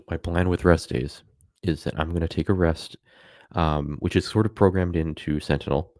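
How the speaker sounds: hiccuping between words; hiccups. Real, not acted. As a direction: talk through the hiccups. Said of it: "I don't know why I'm keep, keep hiccuping".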